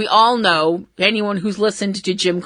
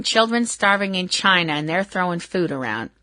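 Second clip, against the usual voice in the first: a hint of a scolding mom, dropping softer; mom's voice; 3 semitones lower, 5 dB quieter than usual. Host recalls mom scolding about wasted food, mild imitation. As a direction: lightly imitate a disapproving mother. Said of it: "my mom's voice going".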